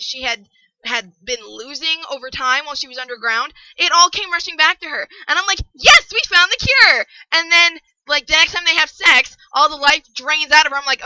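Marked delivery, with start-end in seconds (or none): 5.7-7.0 high, loud, drawn-out celebration; elated cheer. Retold or imitated. Reader reacting to a cure being found, elated. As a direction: cheer in triumphant relief, higher and louder.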